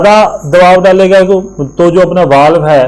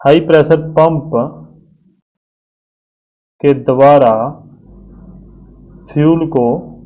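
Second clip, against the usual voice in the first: word by word with long pauses; slow, spaced out, for students to write down; slow dictation. Shown as a demonstration. Teacher dictating the note to students, slow and spaced. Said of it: "इस बात को समझ लेना और इस बात को अपने फटाफट लिख देते हैं".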